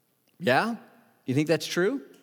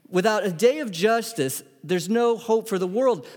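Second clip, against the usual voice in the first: emphatic, higher-pitched declaration; raised, insistent preaching voice; 5 semitones higher than usual. Real, not acted. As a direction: proclaim it with lifted pitch. First side of a contrast.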